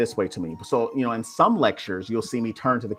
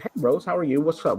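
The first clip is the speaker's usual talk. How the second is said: cheery greeting; 6 semitones higher than usual. Retold or imitated. Acting his cheery reply to client.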